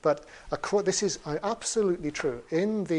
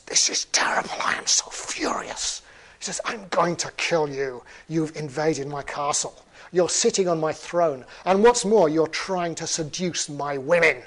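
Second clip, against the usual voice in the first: hammed-up furious outrage, loud and emphatic; indignant storybook villain tirade; furious troll; 7 dB louder than usual. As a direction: storm in and rage at the intruder. Storyteller voices troll storming in furious.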